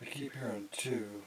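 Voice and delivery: hushed, slow, nervous whisper; nervous night vlog whisper. Real, not acted. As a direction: breathe it out so nothing hears. Ghost hunt, hearing faint answers.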